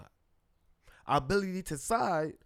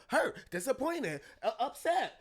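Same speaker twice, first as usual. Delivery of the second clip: higher, slow, listing feelings through a laugh; drawn-out, amused run of feelings; laughing mock list; 8 semitones higher, slower than usual. Imitating women clients listing their feelings, laughing.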